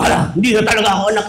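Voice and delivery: put-on rushed, alarmed kid voice; hammed-up dismay; mock panicked child. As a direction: blurt it out in a fake panic.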